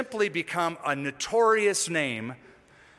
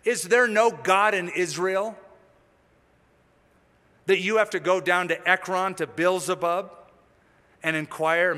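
prophet's challenge, lightly acted; mild confrontation; 3 semitones higher, 4 dB louder than usual. Prophet confronting the king's messengers, mildly acted challenge. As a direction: confront them with pointed, raised-pitch questions. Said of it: "He confronts the messengers and says".

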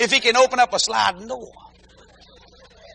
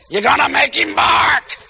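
warning shout; 4 semitones higher than usual. Retold or imitated. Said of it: "Paris said".

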